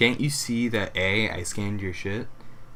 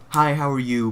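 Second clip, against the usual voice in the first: bright fake customer-service greeting; chirpy, louder hello at the register; cheery cashier voice; 4 semitones higher, 5 dB louder than usual.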